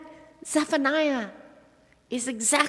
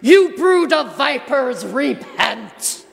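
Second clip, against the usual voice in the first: mock shout; 2 semitones higher, 4 dB louder, slower than usual. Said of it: "John the Baptist shouting".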